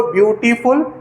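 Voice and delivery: ब्यूटीफुल broken into its three syllables. Shown as a demonstration. Teacher showing students the syllable count, ब्यूटीफुल said syllable by syllable. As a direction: say ब्यूटीफुल in separate beats, ब्यू-टी-फुल. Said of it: "इसमें more than one syllable आया".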